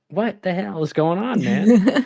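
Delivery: high, slow, laughing complaint; half-laughing mock outrage; laughing exasperation. At the haunted settlements, a high laughing grumble.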